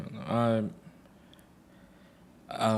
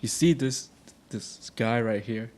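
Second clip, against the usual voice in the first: retold teacher calling out, swelling louder at the end; teacher singling out a student, calling out loud; 4 semitones higher, 11 dB louder than usual. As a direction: announce it to the whole class. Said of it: "the teacher called out".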